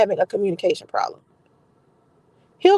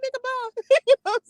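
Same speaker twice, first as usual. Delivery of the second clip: dismissive sendoff; 12 semitones higher, much slower than usual. Retold or imitated. Dismissing the guy.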